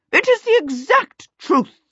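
high, loud, insistent aunt; emphatic aunt. A narrator's reading. Aunt Sempronia vouching for Charmaine to the kobold, emphatic.

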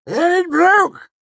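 high excited nobleman; bright, laughing older count; Count Threep voice. A narrator's reading.

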